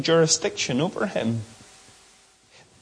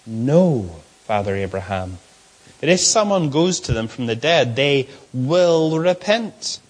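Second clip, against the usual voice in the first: lower, dismissive retort to Abraham; arrogant rich man; 5 semitones lower than usual. Shown as a demonstration. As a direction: talk back with arrogance, dragging the end. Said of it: "Look at how he speaks".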